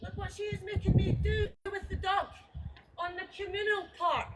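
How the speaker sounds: shouting out in fury; angry shout. Real, not acted. Neighbour shouts at the filming woman about the dog, furious. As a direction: yell it across the garden, furious.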